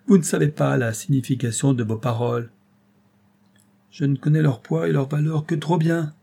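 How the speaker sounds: put-on agitated old lieutenant, pleading; plead, then sink into dread; old Maldon begging Robert to stop, desperate; desperate old man.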